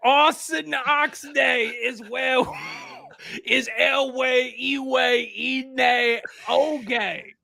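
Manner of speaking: slow Pig Latin clue; slowly spelled Pig Latin answer. Acted. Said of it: "in Pig Latin".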